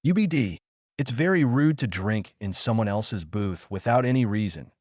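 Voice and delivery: sharp challenge, fading quickly; mildly angry rebuke. Acted. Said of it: "Jack said angrily".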